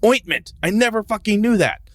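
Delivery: sarcastic amazement. Retold or imitated. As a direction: fake being amazed at the obvious. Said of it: "You're like".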